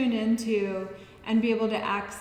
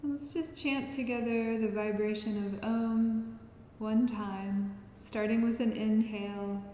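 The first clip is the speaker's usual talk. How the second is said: soft guiding voice with long pauses; guided relaxation; 7 dB quieter than usual. Acted. Yoga teacher preparing listeners to chant, soft guiding voice. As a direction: ease them gently out of the breath. Leads breathing practice.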